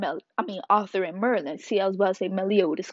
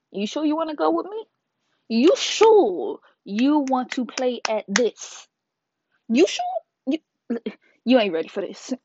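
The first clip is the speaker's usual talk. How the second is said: taunting cat; 4 semitones higher than usual. Retold or imitated. Cat challenges Merlin.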